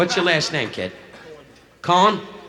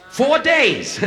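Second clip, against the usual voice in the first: high, louder mock echo of the groom; 13 semitones higher, 4 dB louder than usual. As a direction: parrot his answer back, high-pitched. Echoing the groom's answer.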